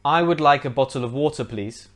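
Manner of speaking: water with clear T, no final R; British model pronunciation. Shown as a demonstration. Teacher saying sentence for learners to copy, British pronunciation. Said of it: "Try to copy my pronunciation".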